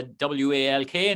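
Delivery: W A L K spelled letter by letter. Real, not acted. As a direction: spell out W A L K so the dogs don't catch it. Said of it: "spelled out".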